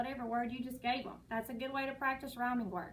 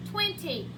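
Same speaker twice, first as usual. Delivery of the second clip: twenty said firmly and a little louder; model word; 4 semitones higher, 3 dB louder than usual. Shown as a demonstration. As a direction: say twenty clearly so the kids can copy it. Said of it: "it's your turn".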